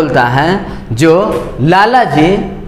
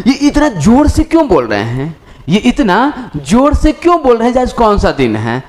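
puzzled retold question; 4 semitones higher than usual. Voices his puzzled thought at loudness.

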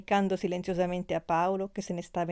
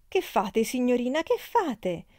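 high, louder alarmed call; calling after; 5 semitones higher, 4 dB louder than usual. A narrator's reading. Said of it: "le gridò dietro Marianna". (grido allarmato, acuto)

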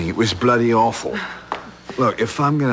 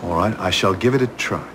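upper class English. Acted. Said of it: "See, that's upper class".

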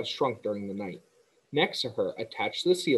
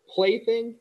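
high, louder scoffing question; indignant echo; 11 semitones higher, 4 dB louder than usual. A narrator's reading. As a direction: toss the word back, offended. Indignant echo of Wilbur's word.

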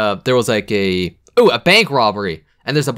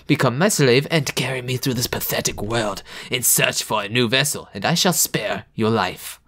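evil voice; 4 dB quieter than usual. Acted. Reading the evil amulet's lines, lightly Jamaican villain. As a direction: menace the kid like a hammed-up demon. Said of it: "all my evil voices sound slightly Jamaican".

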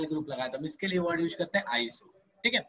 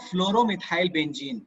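slow dictation; much slower than usual. Shown as a demonstration. Teacher dictates alternate name.

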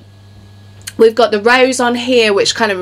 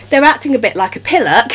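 a light mock British accent on pillock; playful put-on British accent; 4 semitones higher than usual. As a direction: say it the way a Brit would tease. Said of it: "said in my best British accent".

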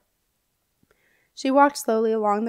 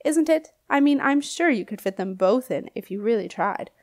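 tickled by his own joke; giggling old knight. Acted. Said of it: "Sir Hereward giggled".

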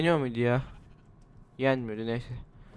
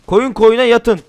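loud pun; 8 semitones higher, 9 dB louder, slower than usual. Real, not acted. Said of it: "Yeni espri".

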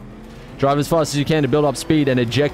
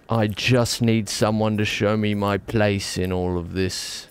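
put-on old man voice on command; 3 dB quieter, slower than usual. Streamer proving he can do the old man voice. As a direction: drag it out like a weary old man. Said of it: "I told you I can do it".

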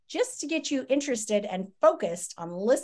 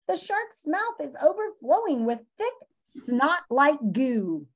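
lively storybook read-aloud for students; reading aloud to class; 3 dB louder than usual. Acted. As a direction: read the chapter to the kids with expression. Teacher reads book to class.

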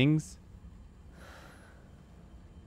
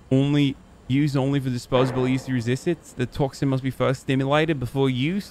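put-on Australian accent for reading aloud; badly faked Australian accent; trashy Australian accent. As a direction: read it out in a bad Australian accent. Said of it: "that accent is trash".

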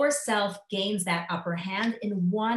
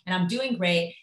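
much higher, gushing self-satisfied voice; smug cheerful self-talk; 4 semitones higher, faster than usual. Retold or imitated. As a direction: gush about your perfect morning. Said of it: "And you're like".

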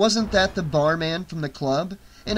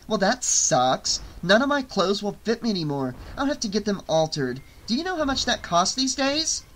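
higher-pitched, complaining chatter; peeved small talk, pitched up; chatty dead woman; 6 semitones higher than usual. Acted. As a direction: grumble casually about a petty nuisance. Plays Amber, dead but chatty.

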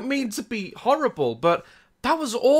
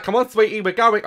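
hurried, mock-calm parent; worried parent voice. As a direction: fake calm to the child. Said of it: "I don't know why I sound like that".

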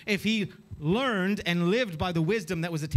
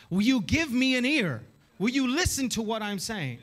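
raised, appealing call; crying out; 4 semitones higher than usual. Acted. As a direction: call out for people to listen. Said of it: "Wisdom cries out".

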